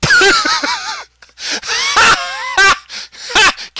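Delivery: high, loud shrieking cackle; real howling laughter. Real, not acted. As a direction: lose it completely in a scream of laughter. Cracks up at the line.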